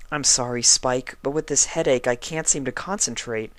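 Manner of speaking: a hint of a weary patient; lightly voiced sick unicorn. Twilight asks Spike for a book, lightly voiced tired pony.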